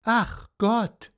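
high plaintive moan; lightly sobbed sigh of woe; mock sobbing. A narrator's reading. Horse bewailing its lot, mildly tearful. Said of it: "schluchzte Cassiopeia".

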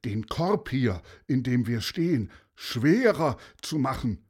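the pilot explains to the bird, mildly anxious; lightly voiced desperate pilot. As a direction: explain the plan slightly urgently.

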